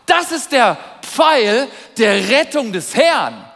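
slow, loud, lifted prophet's pronouncement; solemn prophetic proclamation. Acted.

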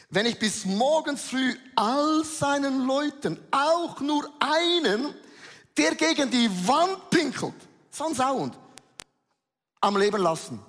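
steigert sich zu wütendem Rufen, höher und lauter; rising fury. Acted. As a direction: Davids Rachezorn immer heftiger herausschreien. David schwört Rache an Nabal. (David droht Nabal, zunehmend wütend laut)

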